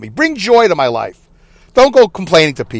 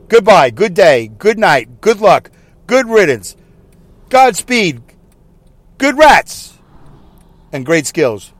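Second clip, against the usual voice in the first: slow, drawn-out string of farewells; mock announcer sign-off; slower than usual. Shown as a demonstration. Host spoofing announcers' sign-offs, slow and drawn out. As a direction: spoof a radio announcer's goodbye. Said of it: "I'll do it one more time".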